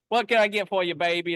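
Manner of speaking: imitating a friendly Southern waitress; Southern diner lady. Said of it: "when I was down in Arkansas and Georgia".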